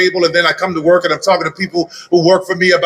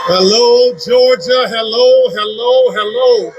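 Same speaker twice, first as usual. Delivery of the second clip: rally greeting; 3 semitones higher, slower than usual. Real, not acted. Rally speaker greeting the crowd.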